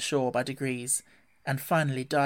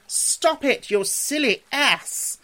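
high, loud, drawn-out scolding shout; alarmed cry; 11 semitones higher, 6 dB louder, much slower than usual. A narrator's reading. Rat yells from the bottom of the boat, alarmed. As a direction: cry out to halt a reckless friend. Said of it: "cried the rat".

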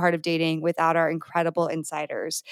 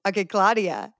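normal talking voice

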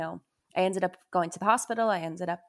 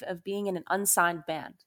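unsigned given a light extra push; stress on unsigned. Retold or imitated. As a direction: lean on the word unsigned to set it apart. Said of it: "And I stress the word unsigned".

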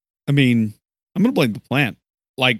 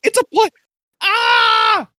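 shriek; 3 dB louder, slower than usual. Acted. Player shrieks at the plant.

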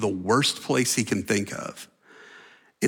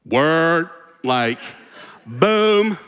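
loud, punchy mock triumph; hammed-up gloating; gloating disciples; 5 semitones higher, 4 dB louder, much slower than usual. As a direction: cheer like smug friends high-fiving. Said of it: "the disciples were like".

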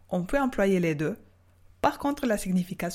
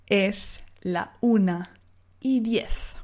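Es la una said slowly and carefully; slow correct take; slower than usual. Shown as a demonstration. Teacher giving the correct Spanish time, slow. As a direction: spell out the correct form slowly. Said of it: "ici, ça va pas".

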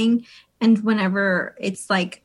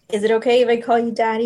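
quick, louder permission request; deliberately unsexy asking; 5 dB louder, faster than usual. Shown as a demonstration. Coaching a friend on what not to do, unsexy asking. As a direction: demonstrate how not to ask. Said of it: "You should make it sexy and whisper it".

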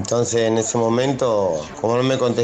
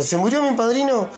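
put-on much higher, stunned child; incrédulo; 10 semitones higher than usual. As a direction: ask like a boy hearing his godfather died. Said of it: "le digo yo". (nene atónito, voz aguda)

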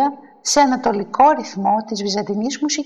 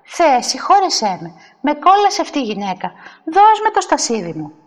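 indignant, rising higher as it goes; exasperated demand; 4 semitones higher than usual. Acted. Churchgoer demanding her seat from a rival, exasperated. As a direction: plead to heaven, then demand crossly.

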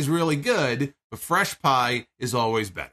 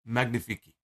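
French accent; 3 dB quieter than usual. Shown as a demonstration. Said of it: "I'm trying to do the French, uh, the French gimmick".

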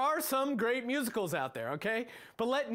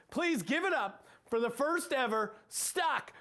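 hyped contest announcer, drawn out at the end; 4 semitones higher, slower than usual. Acted. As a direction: introduce the contest like an arena host. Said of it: "Here it is".

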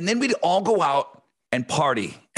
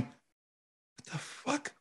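whispered shock; whispered disbelief at the table; stunned whisper; 10 semitones higher, 16 dB quieter, much slower than usual. Retold or imitated. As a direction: breathe it out in disbelief. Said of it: "my wife sitting there going".

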